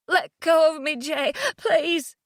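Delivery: urgent, upset pleading; distressed plea. Acted. Pleading to be released.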